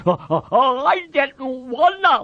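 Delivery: high, sobbing wail; crying. A narrator's reading. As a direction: blubber in helpless remorse. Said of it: "Lenny cried".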